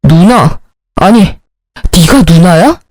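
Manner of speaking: low-pitched, indignant brother; acted low, accusing anger; furious confrontation. A narrator's reading. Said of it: "신우를 죽일 듯이 노려보며 달려들더군요".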